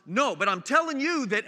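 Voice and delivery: a touch of blustering protest; retold irate dad. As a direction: push back loudly, imitating an angry parent. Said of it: "this dad just goes off".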